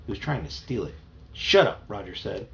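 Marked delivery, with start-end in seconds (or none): 1.3-1.8 high, loud brush-off; angry snap. Acted. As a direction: cut your brother off angrily. Brothers quarrel over the computer.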